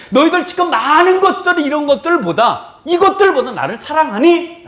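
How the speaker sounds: high, loud pleading question from the Lord; the Lord asking. Acted. Lord's question voiced in sermon.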